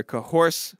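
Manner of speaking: "coerce" slurred as "co-horse", numb lips after dentist; numb mouth after dental work. Real, not acted. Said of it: "I'm talking weird tonight 'cause I got dental work done".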